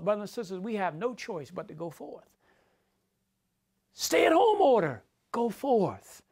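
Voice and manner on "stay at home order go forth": preaching shout. Acted. Preacher contrasts order with command.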